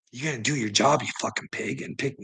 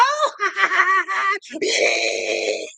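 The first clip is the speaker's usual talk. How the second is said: high mocking laugh; 3 dB louder than usual. After the mocking taunt.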